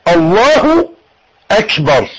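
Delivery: اكبر with a short open e after الله; correct hamza. Shown as a demonstration. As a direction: say اكبر gently, not akbar. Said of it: "مش اكبر".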